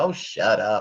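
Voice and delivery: play-acted teasing, playful, good-natured joking. Retelling a joking reply to a husband: imitating own joking "shut up". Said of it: "like that, jokingly".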